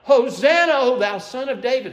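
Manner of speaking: a loud, high joyful cry of praise. Retold or imitated. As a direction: call it out like a crowd hailing a king. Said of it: "and they're crying out".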